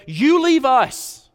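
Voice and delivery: high, loud, very slow pleading townsfolk; preacher voicing the frightened town begging Jesus to go. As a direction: drag out the plea high and loud, hammed up. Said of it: "The town begged".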